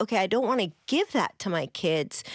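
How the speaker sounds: ordinary delivery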